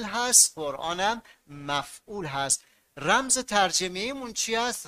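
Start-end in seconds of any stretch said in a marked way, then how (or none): none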